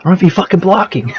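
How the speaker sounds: apologizing to the coach, a mock pleading whine; mock pleading player. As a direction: play the sorry quarterback, half laughing. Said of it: "I'm like".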